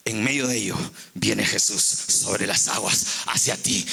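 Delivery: very low, grave preaching voice; solemn preaching. Real, not acted. Preacher telling believers Jesus comes amid fear, low solemn preaching. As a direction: sink low and speak it solemnly.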